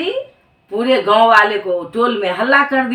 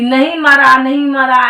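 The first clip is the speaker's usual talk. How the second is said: desperate protest; 3 semitones higher, 5 dB louder than usual. Acted. Wife protests husband not dead.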